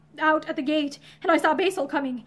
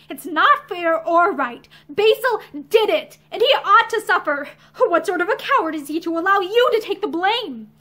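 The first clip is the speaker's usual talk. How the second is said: obstinate; 2 semitones higher, 4 dB louder than usual. Acted. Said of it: "she answered obstinately".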